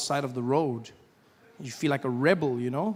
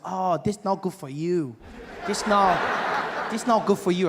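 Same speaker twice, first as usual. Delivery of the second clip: Asian salesman voice; slower than usual. Retold or imitated. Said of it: "He said".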